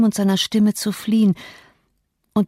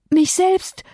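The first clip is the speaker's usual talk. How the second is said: high, breathless gasp of shock; 11 semitones higher than usual. Acted. Catherine sees herself in the mirror, gasping high. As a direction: gasp it out in horror. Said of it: "keuchte sie".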